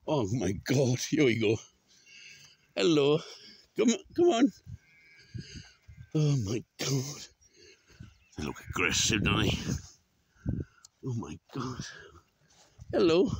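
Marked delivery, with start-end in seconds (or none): 2.8-4.5 loud, raised coaxing call. Real, not acted. Walker coaxes animals along, loud call. 12.9-13.3 loud, high hello; calling out. Real, not acted. Walker greets the animals, loud high call.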